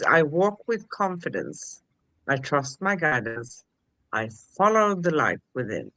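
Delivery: measured mantra with a pause after each statement; deliberate, evenly spaced affirmations; mantra recitation. Shown as a demonstration.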